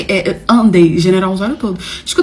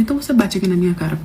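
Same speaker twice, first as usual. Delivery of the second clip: daring challenge; 3 semitones lower, 4 dB quieter, faster than usual. Retold or imitated.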